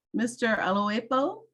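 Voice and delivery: name said in a Nigerian accent. Shown as a demonstration. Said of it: "Trying to use my Nigerian accent correctly".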